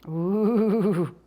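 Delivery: long, wavering "ooh"; eager ooh. Real, not acted. Baker can't wait to eat her biscuits, eager wavering ooh. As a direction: draw out a wobbly, eager ooh.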